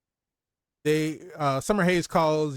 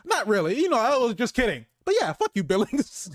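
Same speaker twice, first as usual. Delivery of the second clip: pitched way up, gleeful and teasing; gleeful high mock quote; 7 semitones higher than usual. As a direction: toss it off high like a cheeky boss. Acted boss quote, high and gleeful.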